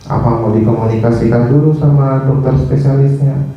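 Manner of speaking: low-pitched, measured, respectful request; polite, tactful demo. Shown as a demonstration. Nurse correctly informing a doctor, polite and low-pitched. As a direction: show how to raise a problem courteously. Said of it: "nggak bisa ngomong dengan baik".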